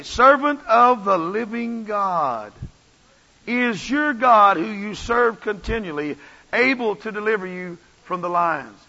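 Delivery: slow, loud lament; drawn-out anguished plea to Daniel; lamentable king. Retold or imitated. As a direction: call out like a grieving king. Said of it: "in a lamentable voice".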